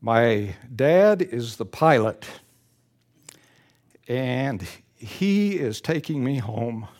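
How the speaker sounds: slow, softening to a hush by the end; a gentle, trusting answer; tender child's reply. Acted. The little girl answering the businessman, slowly and tenderly. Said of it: "And the sweet child replied".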